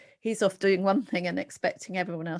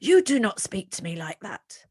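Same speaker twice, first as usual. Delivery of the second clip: loud, firm scolding; retold angry outburst; 7 dB louder than usual. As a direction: snap it as a cross parent telling off a teenager. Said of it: "I started banging around and she shouted at me".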